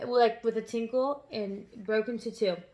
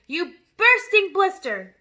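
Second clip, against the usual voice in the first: loud, higher, slow sneer; slow insult; 7 semitones higher, 8 dB louder, slower than usual. A narrator's reading. Headmistress insulting the boy, loud and slow. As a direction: drag out the insult. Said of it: "Trunchbull said".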